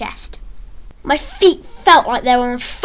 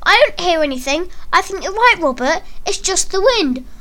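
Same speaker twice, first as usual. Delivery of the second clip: higher-pitched playful tease; quipping; 5 semitones higher than usual. Acted. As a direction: toss it out as a mock-innocent joke. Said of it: "the boys from the back of the crowd quipped".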